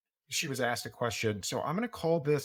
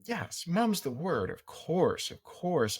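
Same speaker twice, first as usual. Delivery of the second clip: higher, slow, airy hostess voice; society hostess; 4 semitones higher, slower than usual. Acted. Hostess greeting another guest, higher and drawn-out. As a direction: gush like a gracious lady at her party.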